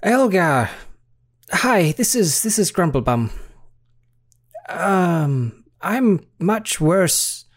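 dying deity. Acted. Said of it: "You hear a voice say".

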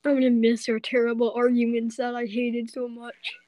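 choked up crying; crying through the goodbye; tearful. Acted. Saying goodbye before college.

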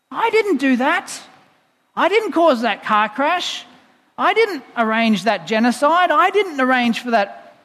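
acted exasperation at being wrongly blamed; annoyed. God answering those who blame him, annoyed protest. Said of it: "I think he gets annoyed".

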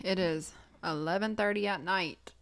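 talking through a yawn; tired, yawning speech. Real, not acted. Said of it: "Sorry, I'm yawning so much".

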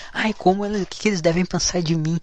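mock self-conscious worrier. Vlogger denying he worries what people think, mock fretting. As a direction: lightly mimic someone anxious about others' opinions. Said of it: "eu fico pensando".

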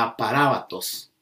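aparábatos, a teacher showing the accented A; stress on the A. Shown as a demonstration. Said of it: "con acento en la A".

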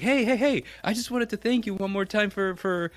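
the groom thanking him, gushing; eager groom. Retold or imitated. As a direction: gush thanks like an overeager new in-law. Groom's eager thanks, voiced high.

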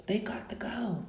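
hushed, unvoiced whisper for emphasis; emphatic whisper. Real, not acted. Podcaster repeating her demand to listeners, emphatic whisper. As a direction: drop to a whisper to drive it home.

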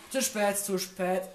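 panicked cry. Real, not acted. Jumpscare imminent in horror game.

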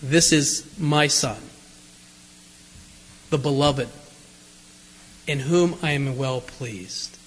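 low, slow, solemn voice from the cloud; voice of God. Acted. Preacher voicing God from the cloud, low and slow. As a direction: boom it out slowly like God speaking from a cloud.

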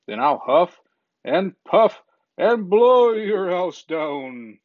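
menacing wolf. Acted. Wolf threatens the pig.

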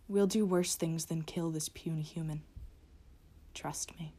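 cold, threatening monster voice with whispers; menacing creature of the night. Acted. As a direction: speak as a gloating predator.

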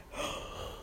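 long tired sigh; heavy just-woke-up sigh; sleepy sigh. Real, not acted. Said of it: "I just woke up".

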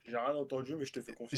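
distant voice over call; faint, far from microphone; far from mic. Real, not acted. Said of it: "on t'entend de loin".

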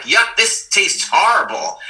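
high, loud, slow hammed-up yuck; mock disgust. Himself complaining about the food, hammed-up disgust. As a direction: pull a face at the taste. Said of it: "I was like".

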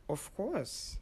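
whispered. Retold or imitated. Humouring the stranger, falling whisper. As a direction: breathe "Of course" with a drop on "course". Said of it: "And I was like".

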